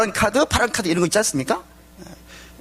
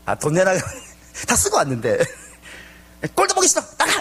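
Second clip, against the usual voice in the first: angry outburst; 2 semitones higher than usual. Retold or imitated. Furious mother throws child out.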